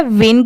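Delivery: "विन" with an i vowel, closed by n; syllable sound demo. Shown as a demonstration. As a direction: say "विन" as the second half of between. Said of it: "इसकी sound क्या आ रही है". ("विन", between के दूसरे हिस्से की sound)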